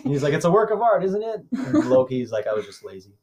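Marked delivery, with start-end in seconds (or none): 0.3-1.4 higher, self-satisfied voice; smug mock director. Friend mocks a director praising his own film, smug. 2.5-3.1 softer, lower sheepish confession; sheepish Loki. Retold or imitated. Friend voices Loki confessing laziness, sheepish and soft.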